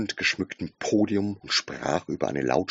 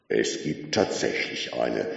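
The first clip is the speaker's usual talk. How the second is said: dignified computer; 7 semitones lower than usual. A narrator's reading. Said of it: "bestätigte Deep Thought".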